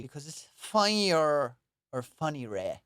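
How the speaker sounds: funny-re said slowly, stressed on re; funny-re drawled. Shown as a demonstration. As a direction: stretch out funny-re. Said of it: "Funnier becomes funny-re".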